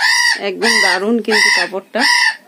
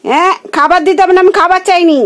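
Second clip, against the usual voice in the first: higher and louder, speaking for the bird; voicing the pet bird; 9 semitones higher, 5 dB louder than usual. Speaking for her pet bird, high mock voice. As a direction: put words in the bird's beak.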